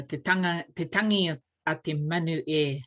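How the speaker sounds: te tangi a te manu with short crisp vowels; short and sharp. Shown as a demonstration. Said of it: "all nice and short and sharp".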